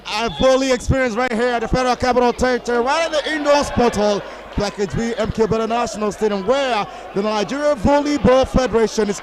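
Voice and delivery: hyped live commentary. Acted. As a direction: sell the big volleyball occasion to the crowd.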